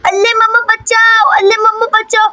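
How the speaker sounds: put-on babyish singsong cry for help; a small pup calling for mummy; lisped call to mummy; lisping puppy wail. Puppy cries out, different timbre.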